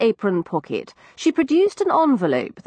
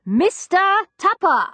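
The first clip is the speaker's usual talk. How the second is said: loud and higher, bawled into a trumpet; bawled name; 11 semitones higher, 4 dB louder than usual. A narrator's reading. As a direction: yell the name into her ear trumpet. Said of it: "Into it I bawled".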